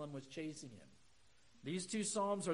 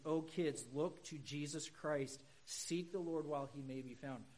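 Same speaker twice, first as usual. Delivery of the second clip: put-on gentle pleading with kids; 2 semitones lower than usual. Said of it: "what we need to say is".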